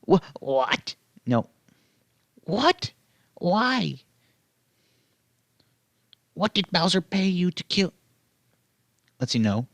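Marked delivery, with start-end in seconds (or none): 0.1-7.9 much higher, panicky little creature voice; startled Yoshi. Acted. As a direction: squeak out the questions in alarm.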